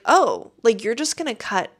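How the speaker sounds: rising, disbelieving question; can't believe she cut in; retold shock at the woman cutting in; incredulous. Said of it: "I was like".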